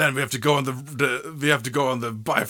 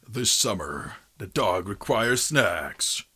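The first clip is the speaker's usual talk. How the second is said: movie trailer voice; 4 semitones lower than usual. Acted. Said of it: "almost like a movie trailer guy".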